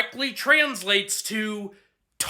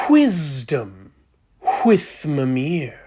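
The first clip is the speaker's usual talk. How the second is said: low, slow announcer voice; deep announcer; 5 semitones lower, much slower than usual. Acted. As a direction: announce it like a show title. Announcer intro.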